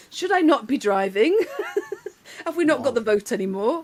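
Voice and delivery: high, loud mock outrage through laughter; laughing, rhetorical disbelief; laughing indignation. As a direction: protest incredulously while cracking up. Mocking the sexist question, laughing.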